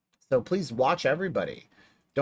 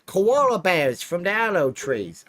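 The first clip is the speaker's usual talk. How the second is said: very high, loud, drawn-out fake Aussie; badly faked Australian accent that wanders off; muddled Australian accent; 10 semitones higher, 5 dB louder than usual. Asking Dingo's mom's permission to stream, muddled Australian accent. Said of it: "I don't even know what accent that even is".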